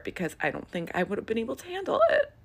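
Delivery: fast, laughing through tears. Real, not acted. Admitting she couldn't have handled it, laughing. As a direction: shake it off with a laugh.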